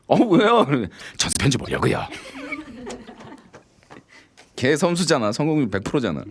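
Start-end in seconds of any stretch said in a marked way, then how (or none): 0.1-0.7 high, louder surprised woman; a lightly voiced curious woman; woman's reply. Woman asking the guy why he wants the label. 1.2-2.1 Gyeongsang speaker forcing Seoul speech on 편지; Gyeongsang accent. Retold or imitated. Friend using a Gyeongsang-tinged pickup line on a woman. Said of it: "경상도 사투리로".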